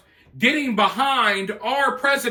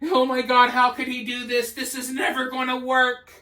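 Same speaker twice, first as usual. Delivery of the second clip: mocking a panicked crowd, pitched up a little; 3 semitones higher than usual. Mocking the left freaking out over Trump's tariffs, in a mildly panicky voice. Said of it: "But the left is freaking out".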